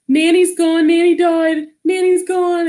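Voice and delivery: high-pitched distraught wail, retold; acted-out grief, voice way up high; crying. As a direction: re-enact breaking terrible news through tears. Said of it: "And I was crying".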